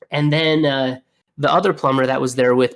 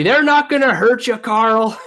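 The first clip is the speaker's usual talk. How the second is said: high-pitched imitation of an old coworker yelling; mock yelling; 9 semitones higher, 4 dB louder than usual. Old plumber yelling at a panicked coworker in the wall, mock yelling. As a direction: raise the voice in a retold yell. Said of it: "he's just yelling at me".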